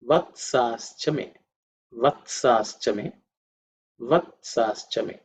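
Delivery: "Vatsaschame" said slowly, syllables drawn out; mantra recitation. Shown as a demonstration. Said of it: "The next, uh, mantra is".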